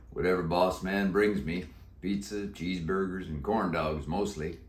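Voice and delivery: put-on a croaky old Western cowboy; deep croaky voice. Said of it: "He answered in a deep, croaky voice".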